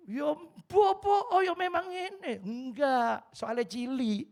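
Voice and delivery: mother answering the joke, high and loud; old mother voice. Retold or imitated. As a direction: squeak it out like an elderly mother. Voicing old mother's reply.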